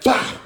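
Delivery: sudden "bah" for a landed punch; vocal smack in a fight retelling; punch sound effect. Retold or imitated. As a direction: imitate a hit landing. Imitates the punch landing.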